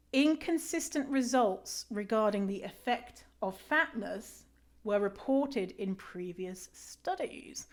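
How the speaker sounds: slow, whispered incredulous reread; reading in disbelief. Shown as a demonstration. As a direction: reread it slowly, hushed, can't believe it. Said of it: "Let me read that again".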